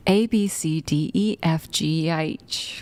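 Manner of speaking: put-on British accent. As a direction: recite it the British way. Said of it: "British people be like".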